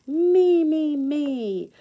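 eager calling out. Acted. Kids fighting over toys, eager child calling out. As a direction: call out like a kid who wants a turn.

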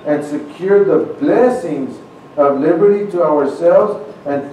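steady, stately reading of the preamble; formal recitation. Acted. Preacher reciting the preamble to his listeners, stately formal reading. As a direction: give each phrase its dignity.

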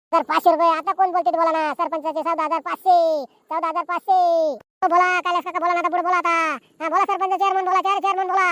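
running auction call; auctioneer's patter. Acted. Auctioneer urging villagers to bid quickly, auction patter. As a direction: urge the crowd on, bid after bid. Calls bid, urges named bidders.

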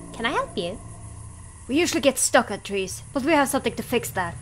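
dry, sarcastic creature voice. Acted. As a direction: say it with cynical sarcasm. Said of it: "I sound more cynical or sarcastic".

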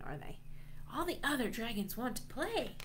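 plain reading voice

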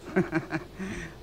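a short, sly laugh at him; a knowing little chuckle; mocking laugh. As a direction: laugh at his unease. Mocking his old shipmate.

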